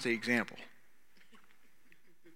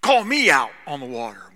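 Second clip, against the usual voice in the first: Peter blurting it out, high and loud; eager Peter; 7 semitones higher, 13 dB louder than usual. Retold or imitated. Peter calling to Jesus on the water, high and eager. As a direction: burst out with bold eagerness.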